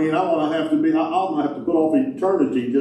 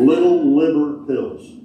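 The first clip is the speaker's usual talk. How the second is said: slow careful repeat; 4 dB louder, slower than usual. Shown as a demonstration. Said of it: "I stuttered that one out".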